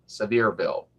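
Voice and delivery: "Sevierville" as suh-VEER-vil, falling; correct pronunciation. Shown as a demonstration. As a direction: repeat "Sevierville" evenly with VEER stressed. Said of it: "pronounce it right the first time".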